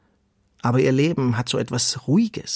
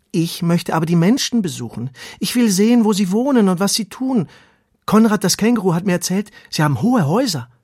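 higher, louder, excited little worm; young earthworm longing for adventure; eager little worm; 7 semitones higher, 6 dB louder than usual. Acted. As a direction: plead with bright, pushing excitement. Eager worm Ronny pleads.

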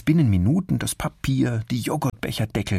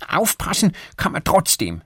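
mildly angry; 10 semitones higher, 4 dB louder than usual. Acted. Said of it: "sagt Erik wütend".

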